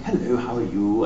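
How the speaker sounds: lightly put-on British butler voice; polite British greeting, mildly acted; a hint of proper British accent; Sebastian. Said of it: "just do the Sebastian voice all afternoon".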